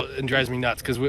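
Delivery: usual speaking voice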